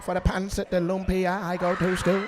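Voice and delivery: mock Filipino accent; hammed-up Filipino-accented line. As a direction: imitate a Filipino speaker. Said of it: "Are you Filipino? Why you sound like that?".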